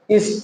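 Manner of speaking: इस drawn out into "is-peo", L hidden; slow "is-peo" for spell, tongue never landing on L; dark L demo. Shown as a demonstration. Teacher models spell for learners, dark L demo. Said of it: "वही technique पुराना वाला".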